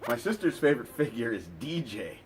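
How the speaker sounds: deadpan sarcasm about a favorite; sarcastic. Pretend. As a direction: say it dry, meaning the opposite. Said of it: "I'm being sarcastic".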